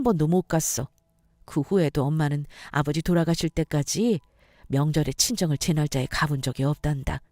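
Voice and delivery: calm, tender confiding; subdued, motherly reassurance; warm mother-in-law. Acted. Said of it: "어머니의 따뜻한 말".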